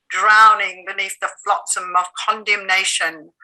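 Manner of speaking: breathy whisper. Acted. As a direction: whisper it like drowning. Whispered line in poem.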